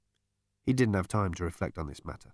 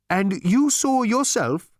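higher, louder, slow astonished voice; astonished Gargravar; 10 semitones higher, 5 dB louder, slower than usual. A narrator's reading. Disembodied mind questioning Zaphod, astonished and slow. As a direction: drag it out in disbelief.

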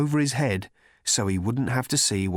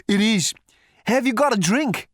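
loud, high thunder god voice; booming god; 11 semitones higher, 5 dB louder than usual. A narrator's reading. Thor voiced.

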